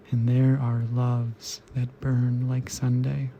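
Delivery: even, incantatory list poem recital; restrained, rhythmic verse reading; poetry reading. Acted. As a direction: read each repeated phrase steadily, pausing between lines. Reads second poem aloud.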